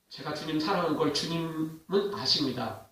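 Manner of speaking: soft, low answer from a humbled disciple; subdued reply. Retold or imitated. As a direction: imitate a humbled reply, voice dropped. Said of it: "이렇게밖에 이야기를 못해요". (낮고 조심스럽게 흉내 낸 대답)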